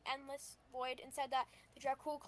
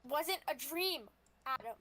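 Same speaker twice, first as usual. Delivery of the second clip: insistent tone. Acted. Eliza insisting to Adam it was no dream, mildly testy. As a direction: push back firmly, drawing it out a little. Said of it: "Don't give me your tone".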